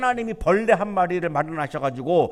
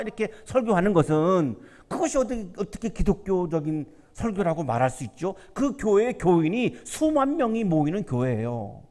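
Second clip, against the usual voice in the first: normal talking voice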